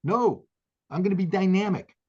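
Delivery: rising to a furious battle cry; pissed off. Real, not acted. To the host, a Marine vowing to fight: real fury. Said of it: "And I am pissed off".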